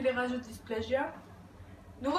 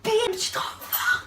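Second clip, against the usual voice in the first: put-on French-from-France accent; 9 semitones higher, 5 dB louder than usual. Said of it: "Pourquoi tu parles comme une Française".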